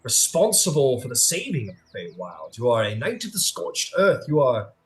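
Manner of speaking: a hint of a cool, persuasive sphinx; lightly voiced sphinx. Sphinx urging Trisuin to escape justice, calmly persuasive. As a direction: coax the knight to escape justice.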